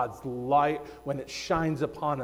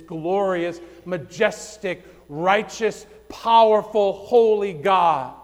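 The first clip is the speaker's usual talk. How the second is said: rising emphatic preaching; 3 semitones higher, 4 dB louder than usual. Real, not acted. Preacher lifting the crowd with God's majesty. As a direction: build to a ringing peak.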